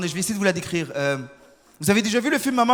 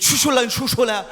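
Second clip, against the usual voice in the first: hushing gibberish imitation of Mandarin; mock Mandarin full of shushing sounds; mock Mandarin, secretive; 3 semitones higher, 3 dB louder, slower than usual. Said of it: "ils se disent toujours des secrets".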